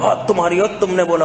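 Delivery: lightly imitated marital spat; bickering couple. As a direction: toss out accusations like squabbling spouses. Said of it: "میرے سامنے لڑ رہے ہوتے ہیں،".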